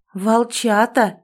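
"Волчата" said slowly and pressed hard; with emphasis. A narrator's reading. Heroine stressing "Волчата" to the old man, slow and pressed. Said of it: "с нажимом произнесла я".

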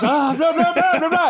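high, hurried no no no; mock panicked protest. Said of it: "she goes".

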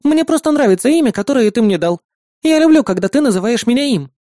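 put-on high, sweet girl's voice; bright, eager to please her brother; eager little sister. Sister offering to cook whatever her brother wants, eager.

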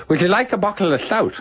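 high, slurred voice with a laugh in it; mock slurred high voice; Buckles' impaired speech. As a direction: mimic a man with a speech impediment. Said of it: "instead of saying".

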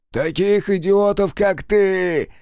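loud, high, slow furious shout; angry yell. Acted. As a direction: hurl it back at him. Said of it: "зло выкрикнул мужик". (злобный выкрик)

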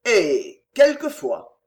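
innkeeper's mumble. Acted. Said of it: "puis murmura".

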